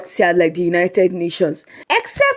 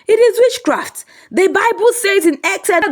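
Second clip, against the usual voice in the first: solemn preacher; 12 semitones higher than usual. A narrator's reading. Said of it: "raised his hand solemnly".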